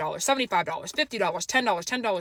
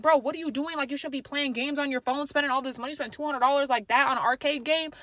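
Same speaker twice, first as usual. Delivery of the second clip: higher, upset scolding; tweaking out; 4 semitones higher than usual. Retold or imitated. Narrator scolding her brother, higher and heated. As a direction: scold him, pitched up. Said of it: "So now I'm tweaking".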